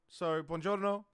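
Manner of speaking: Italian accent. Real, not acted. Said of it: "sorry for the accent".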